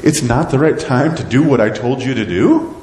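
can't believe what he's hearing; incredulous God. Acted. God questions the people's excuse, incredulous. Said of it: "how incredulous God must be".

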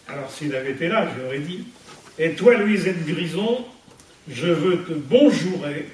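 measured verse, a pause after each line; poem recitation. Acted. Speaker reads her verse to the gathered friends, poem recitation. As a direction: recite homemade rhymes, line by line.

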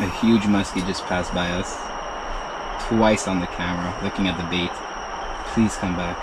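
hushed excitement. Real, not acted. Whispering so fish stays.

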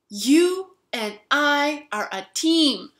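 hammed-up pal voice; mock chummy. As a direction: imitate him turning cheerfully friendly. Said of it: "the guy who spilled the drink said".

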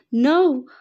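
loud, high cry of horror; anguished scream. Acted. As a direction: scream as your child falls. Child jumps off cliff in dream.

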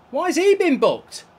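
high, loud indignant question; outraged gamer at a yellow card; indignant shout. Real, not acted. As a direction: demand an answer, outraged. Gamer angry at booking.

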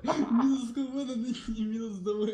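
laughing. Real, not acted. Laughing at lost vehicle.

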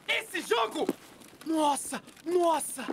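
high exasperated cry; frustrated outburst. Real, not acted. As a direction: groan at the game in frustration. Dies in game, frustrated outburst.

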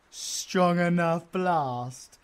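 teasing innuendo. Retold or imitated. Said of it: "Has my owl got some pent-up frustrations?".

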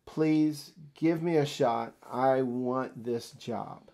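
earnest, steady, slowing at the end; sincere enthusiasm. Shown as a demonstration. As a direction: show real but calm eagerness. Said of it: "that's the appropriate level of enthusiasm".

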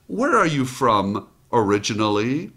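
unhurried, friendly question; a mother's relaxed friendly question; easygoing tone. Retold or imitated. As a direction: ask it like an old friend would. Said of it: "Notice the tone, easygoing".

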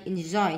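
slow "enjoy" stressed on "joy"; second-syllable stress. Shown as a demonstration. Teacher marking word stress, "enjoy" stressed on the second syllable. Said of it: "nhấn âm hai".

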